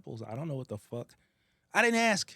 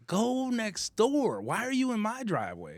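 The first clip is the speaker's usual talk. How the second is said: high, loud, slow and laughing; mock outraged yell; 11 semitones higher, 4 dB louder, slower than usual. Ordering the neighbor out of his driveway, laughing mock yell. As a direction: shout her off, half laughing.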